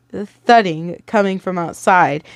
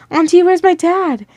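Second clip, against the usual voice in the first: put-on child's whisper; 9 semitones higher than usual. A narrator's reading. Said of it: "Ethan whispered".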